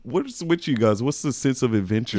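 a hint of an outraged father; lightly voiced angry dad; mock indignant dad. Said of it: "He was like".

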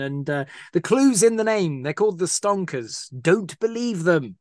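high, breezy mock sales pitch for the cult; mock cult recruiter. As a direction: play a cheery cult recruiter, tongue in cheek. Mocking the cult's pitch.

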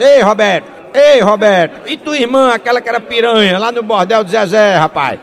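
loud heckle called across the place; joker shouting. Acted. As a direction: holler out to someone far off. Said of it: "Aí um gaiato gritou lá".

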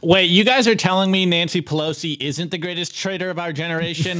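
sarcastic feigned shock, drawing out the question; mock disbelief. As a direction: pretend to be stunned by the obvious. Mock disbelief before "seriously though.

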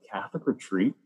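retold disbelief, pitch jumping up at the end; incredulous. Son answering mom's retreat invitation, incredulous. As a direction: balk at the idea, rising into protest.

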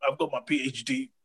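mock the gloomy know-all; a sulky mopey superior tone; smug miserable PhD. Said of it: "But we just wanna be there".

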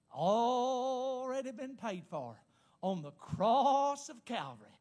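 slow preacher's proclamation, stretching "Already"; drawn-out declaration. Real, not acted. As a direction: declare it slowly, holding the vowels. First declaration of the sermon's point.

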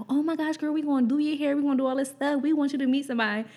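mock-excited chatter from the cousins; imitating eager cousins. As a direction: play the cousins getting carried away. Retold cousins gushing over a girl.

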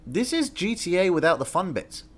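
laughing quote. Retold or imitated. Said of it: "I'm like".

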